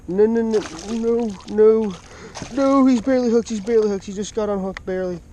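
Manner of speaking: high, loud no no no; real alarm, barely hooked; frantic shout; panicked. Real, not acted. Fish nearly unhooked.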